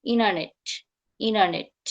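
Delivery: ইনারনেট as "ee-nar-net", N replacing T; vanishing T. Shown as a demonstration. Teacher repeating it for learners, vanished T. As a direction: let the middle T turn into N in ইনারনেট. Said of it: "টিটা এন হয়ে যাবে".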